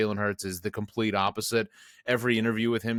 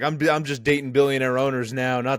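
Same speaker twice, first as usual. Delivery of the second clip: mock snooty girlfriend; 3 semitones higher, 5 dB louder than usual. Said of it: "came out and was like".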